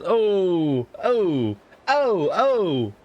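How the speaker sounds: high, hooted mock Liverpool "oh"s; impression of a band. Mocking the sons as a famous band, Liverpool accent impression. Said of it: that they were doing the fucking band impression.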